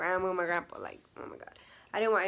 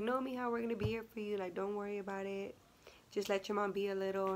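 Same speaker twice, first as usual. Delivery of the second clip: reassuring; 3 dB quieter than usual. Retold or imitated. Boyfriend's mom comforting her.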